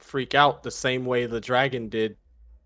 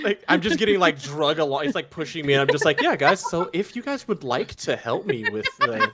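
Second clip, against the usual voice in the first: holding down a pet; 4 semitones higher, 3 dB louder than usual. Real, not acted. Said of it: "you're wrestling the cat while you're telling me this".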